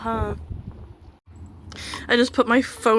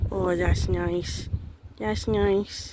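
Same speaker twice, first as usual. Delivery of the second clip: slow, soothing coo; 2 semitones lower, 3 dB quieter, much slower than usual. Real, not acted. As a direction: soothe the goat as you pet it. Scratching goat.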